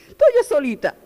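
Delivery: high, whiny "estoy yo solita"; lightly mocking a self-pitying woman; imitating a lonely believer, high and whiny; mock whine. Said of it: "empezamos a ver el problema".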